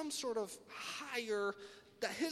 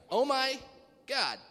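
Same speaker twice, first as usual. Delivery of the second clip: mock exclamation; 5 semitones higher, 6 dB louder, slower than usual. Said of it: "You say".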